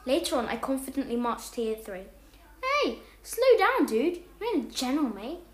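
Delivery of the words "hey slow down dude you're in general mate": shouting. Acted. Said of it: "Barney shouted".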